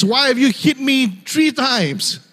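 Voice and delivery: talking donkey. Acted. Donkey questioning the master who hit it, talking-donkey voice. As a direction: give the donkey a slightly comic high voice. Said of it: "The donkey can talk, just like the movie".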